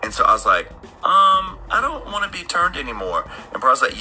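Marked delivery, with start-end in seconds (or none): 1.0-3.3 high, hesitant retold refusal; nervous backing out. Would-be vampire backing out before Nosferatu, high and hesitant. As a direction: back out gingerly in a raised voice.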